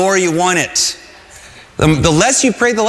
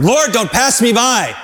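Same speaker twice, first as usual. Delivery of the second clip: calling out; 5 semitones higher than usual. Shown as a demonstration. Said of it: "Let's say that together".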